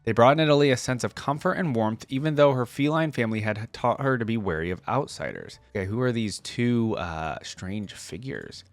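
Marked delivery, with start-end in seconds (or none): 0.0-5.6 lore read in a lightly dramatic storyteller voice; story narration. A narrator's reading. Reading Nidalee's lore to viewers, gentle story narration. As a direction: read it like the opening of a legend, unhurried. Reads champion biography aloud.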